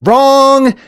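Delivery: loud, high buzzer-like "Wrong!"; emphatic rejection. Real, not acted. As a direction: cut in with a high, loud correction. Abruptly rejects the clip's question.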